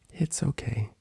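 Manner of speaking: soft breathy whisper; Fluttershy whisper. Acted. Fluttershy reassures Applejack in a whisper. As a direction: barely breathe it out.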